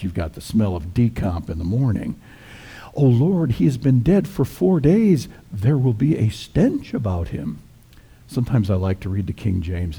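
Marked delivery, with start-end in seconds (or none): 2.9-7.6 high-pitched, mildly dismayed objection; lightly acted protest, pitched up. Martha objects to opening her brother's tomb, protesting.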